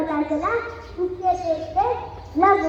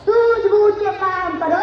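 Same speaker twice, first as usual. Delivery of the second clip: louder rally cry; slogan shout; 4 dB louder than usual. Acted. (नारा ज़ोर से लगाना)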